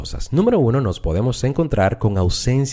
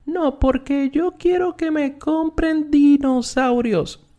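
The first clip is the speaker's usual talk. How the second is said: high flat monotone, slow and level on one note; robotic monotone; slower than usual. Retold or imitated. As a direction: imitate a child speaking robotically, stuck on one high note. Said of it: "un niño que hablaba más o menos así". (voz robótica monótona, aguda y lenta, imitando a un niño)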